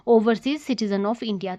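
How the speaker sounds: each word set down slowly and deliberately; slow it right down to drive the term home; slow emphatic answer. Shown as a demonstration. Teacher stresses the merged category. (धीरे और ज़ोर देकर उत्तर)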